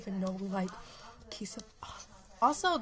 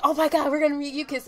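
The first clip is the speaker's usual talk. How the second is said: excited; 4 semitones higher, 4 dB louder, faster than usual. Retold or imitated. Sister mocks her excitement.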